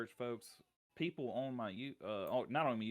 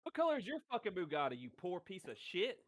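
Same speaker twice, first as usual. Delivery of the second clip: mock rich snob; 6 semitones higher than usual.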